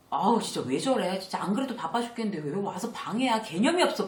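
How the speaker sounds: exasperated grumble about the boss; irritated complaint. Retold or imitated. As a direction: vent like a fed-up employee. Annoyed employee complains about boss.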